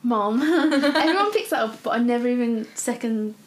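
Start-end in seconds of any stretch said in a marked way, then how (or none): 0.0-0.4 Mom said with an American-style o vowel. Shown as a demonstration. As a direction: say Mom, rounded and open. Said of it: "I love the way you say mom".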